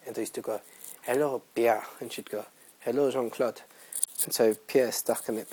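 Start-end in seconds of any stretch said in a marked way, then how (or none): 1.0-1.9 mock French accent greeting; playful French-accented hello. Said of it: "talk to each other in the French accent". 2.8-3.6 imitating a friend's French accent; playful mock French accent; lightly French-accented greeting. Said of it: "talk to each other in the French accent".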